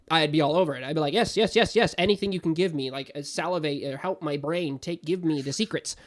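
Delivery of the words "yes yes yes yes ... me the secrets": eager begging. Retold or imitated. Fan begging the show for its secrets, eagerly. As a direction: beg for more like a starving fan.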